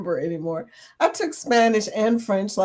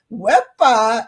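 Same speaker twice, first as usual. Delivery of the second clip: louder Puerto Rican exclamation; Puerto Rican accent; 6 dB louder than usual. Shown as a demonstration. Reading viewers' greeting aloud, in a Puerto Rican accent. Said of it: "in my Puerto Rican accent".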